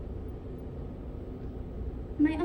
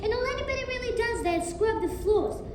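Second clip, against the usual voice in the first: furious tantrum. Acted. Child's furious tantrum at visitor.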